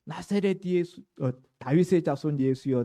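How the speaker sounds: acted outcry, voice lifted; loud calling out. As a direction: call out loudly as the blind man. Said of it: "큰 소리로".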